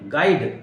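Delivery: गाइड said gaid with no u; silent u. Shown as a demonstration. Teacher giving गाइड with a silent u. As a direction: say गाइड as one syllable, no u. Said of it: "आई को ई पढ़ा जाता है".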